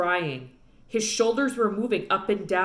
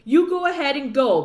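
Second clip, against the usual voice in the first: defiant; 5 semitones higher, 6 dB louder than usual. A narrator's reading. Opal defies father.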